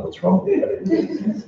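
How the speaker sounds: high, slow, laughing mock outrage; a mock-outraged Buddhist laughing at a friend who skips the orphans; laughing inner rebuke. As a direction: scold her in your head through giggles. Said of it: "in my mind, I'm like".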